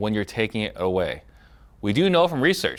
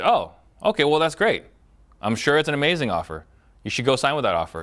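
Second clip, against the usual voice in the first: higher-pitched, upbeat approval; congratulating demo; 4 semitones higher than usual. Shown as a demonstration. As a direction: act pleased for them, starting high. Demo assuming the best case.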